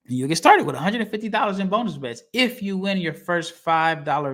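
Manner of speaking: measured sponsor read, key words stretched. Acted. Host telling listeners about a bonus offer, ad-read delivery. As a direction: read out the betting promo.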